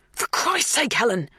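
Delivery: high, exasperated outburst. A narrator's reading. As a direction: snap at them to stop. Dan restrains Helen in argument.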